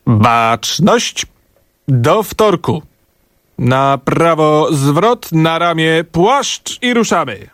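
mock military drill sergeant; drill commands. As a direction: bark it like a parade-ground officer. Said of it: "tak się jakoś poczułem doniośle". (musztra jak na placu apelowym)

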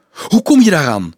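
agitated, urgent question; urgent astonishment. A narrator's reading. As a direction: demand it loudly, pitch jumping up. Startled by the found box.

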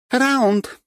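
high, loud announcement; ringing, high-pitched cry; exclaiming. A narrator's reading. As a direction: call the round like a referee. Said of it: "воскликнула Катюшка".

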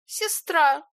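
high, loud mocking echo; mocking mimic. A narrator's reading. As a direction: mimic him spitefully. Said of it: "передразнила его Илона". (передразнивая высоким голосом)

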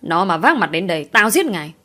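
hard, angry fatherly scolding; angry refusal. Acted. Father rejecting his daughter's begging, angry. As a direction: shut down her plea in anger.

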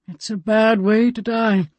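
a hint of a weathered elder; old man Grant. Grant voiced by narrator.

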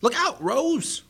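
high, loud, drawn-out warning yell. Acted. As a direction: shout a warning at the screen. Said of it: "Bucky yelled".

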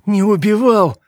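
high-pitched mocking echo; bitterly sarcastic parroting; bitter scoff. A narrator's reading. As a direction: throw the denial back with scorn. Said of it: "усмехнулся горько Адам".

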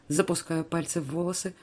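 usual speaking voice

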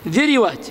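ذروات said dhiriwāt, i on both dh and r; vowel copied over. Shown as a demonstration. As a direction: say ذروات with a short i after the r. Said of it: "تحقق فيها الإتباع". (ذروات بكسر الذال والراء)

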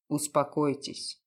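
low, cynical, self-assured detective. A narrator's reading.

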